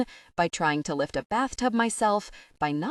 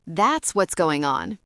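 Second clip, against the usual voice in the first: smiling; 4 dB louder, slower than usual. Retold or imitated. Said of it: "and smile at her".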